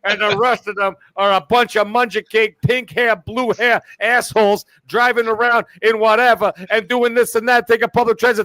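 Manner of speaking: a cocky know-it-all character, only slightly put on; Tony Baloney character. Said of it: "You made me break character".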